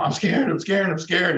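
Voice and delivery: lightly acted fearful chant; mock scared mantra. Coach mimics someone feeding their own fear, insistently.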